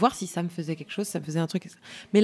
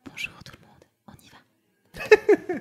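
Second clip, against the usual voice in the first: ASMR whisper; 12 semitones higher, much slower than usual. Retold or imitated. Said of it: "ils font".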